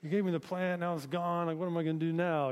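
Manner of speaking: a light mock of a sulking prophet; lightly voiced Jonah moaning that his plant is gone; pouting prophet. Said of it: "he's like the pouting prophet now".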